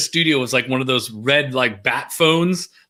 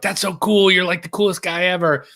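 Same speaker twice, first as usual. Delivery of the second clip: higher, gushing admiration; wowed and a little hyped; retold gushing; 4 semitones higher than usual. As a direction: gush like a starstruck fan. Retells gushing to college DJ.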